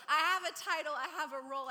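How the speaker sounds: loud, playful boast; hammed-up claim of importance, easing off; mock self-importance. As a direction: puff yourself up in jest, starting big. Jokingly boasts of made-up importance.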